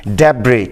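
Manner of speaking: ڈیبرے repeated clearly, no s; ڈیبرے with a silent s, falling; correct pronunciation. Shown as a demonstration. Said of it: "پھر سن لیں".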